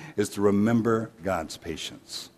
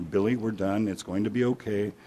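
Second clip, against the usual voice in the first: softer, slightly lowered soothing; calm reassurance; 5 dB quieter than usual. Acted. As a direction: soothe gently as the dad. Dad reassures again, calmly.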